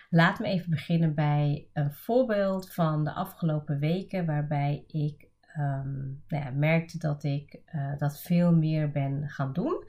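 stuffy nose, like a cold; blocked nose. Real, not acted. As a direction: talk with a bunged-up nose. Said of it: "ik klink een beetje verkouden".

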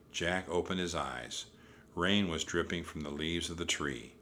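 ordinary delivery, nothing marked

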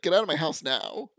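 loud, commanding order; angry shout. Retold or imitated. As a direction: bark it at the intruder. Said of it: "He's like".

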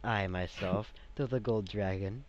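lightly voiced stately dragon, slow opening; measured, formal address; dragon on the council. Dragon presenting himself to the party, lightly voiced and formal.

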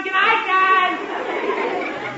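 slow sleepy yawned words; yawning. Acted. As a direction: yawn through the good night. Sleepy boy yawns good night.

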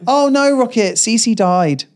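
high start, slowing to a drawn-out end; joking fake dismay. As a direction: break mock bad news to a toddler. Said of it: "as a joke".

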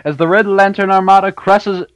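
light announcer voice, running out of breath. Acted. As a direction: hype announcer reading a long summary. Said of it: "you're running out of breath, man, on that announcer voice".

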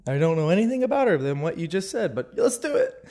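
hushed "ooh" of a smitten heart, lifting at the end; eager inner voice. Retold or imitated. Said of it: "my heart was like".

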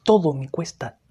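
loud weary venting, pushing hard on nada and todo; loud fed-up complaint about life; loud despairing rant. Real, not acted.

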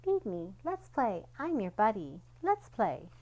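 lightly voiced chirpy toy; a hint of a peppy toy's chatter; mildly toy-like repeated lines; talking toy dog. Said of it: "a toy dog that talked".

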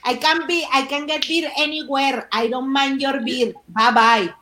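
put-on slow Latina accent in English; Sofía Vergara. Imagined comeback to the man refusing beer, slow Latina accent. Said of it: "con un acento así".

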